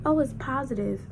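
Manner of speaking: flat, unbothered "Oh, it's positive."; calm. Retold or imitated. Boyfriend reading the test, totally calm about it. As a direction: say it like it's nothing at all. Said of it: "Calm is, calm".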